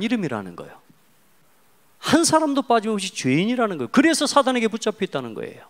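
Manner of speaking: high, loud gospel proclamation; full-force preaching. Acted. Preacher proclaiming Jesus as the only rescuer, full force.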